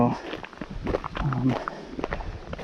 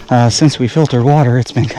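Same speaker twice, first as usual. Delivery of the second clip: out of breath; faster than usual. Real, not acted. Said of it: "If I sound like I'm out of breath".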